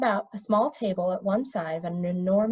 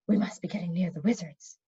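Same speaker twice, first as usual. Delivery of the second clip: hushed and softer, near the enemy; a mild hushed warning; soft whisper; 3 semitones lower, 5 dB quieter than usual. Acted. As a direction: keep it low so the wizards can't hear. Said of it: "Telemain whispered back".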